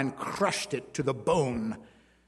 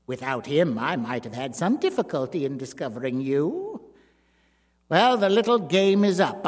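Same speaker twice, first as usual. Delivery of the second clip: menacing dwarf. A narrator's reading. The dwarf finds his wife with her lover, coldly. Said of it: "Monsieur Jacques Courbet said at last".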